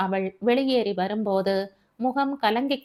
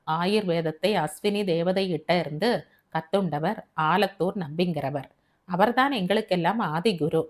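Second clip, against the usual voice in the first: grave physician; 3 semitones lower than usual. Acted. Physician Panikkar recounts to Siva.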